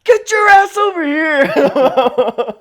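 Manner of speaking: loud, slow strained shout; retold strained yell; urgent shout. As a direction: call him over urgently. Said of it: "He's like".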